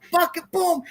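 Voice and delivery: high-pitched "boom" for a punch; punch sound effect. Retold or imitated. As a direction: voice the blow landing. Acting out a punch in retelling.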